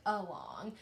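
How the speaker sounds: "along" with its first vowel as an unstressed "uh"; alternative vowel sound. Shown as a demonstration. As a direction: say "along" the everyday way, starting on "uh". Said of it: "sometimes we would say".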